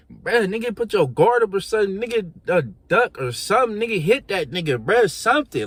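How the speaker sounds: high, loud urgent shouting; yelling from the sidelines. Retold or imitated. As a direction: shout at him to fight back. Yelling advice at losing friend.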